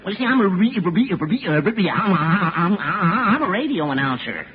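stammering on every word; stuttering. Acted. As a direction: get stuck repeating syllables. Stuttering witness.

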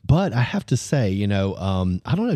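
ordinary talk

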